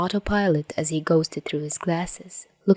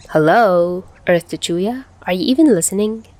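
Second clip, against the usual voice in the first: louder, accusing call to a daydreaming friend; 2 semitones higher, 4 dB louder than usual. Acted. Tachihara to Chuya, calling out, accusing. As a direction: snap him out of his daze. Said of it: "Tachihara asked accusingly".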